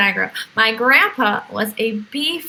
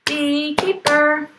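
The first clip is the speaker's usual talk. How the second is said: slow repeat; 3 semitones higher, slower than usual. Shown as a demonstration. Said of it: "Here's the beekeeper".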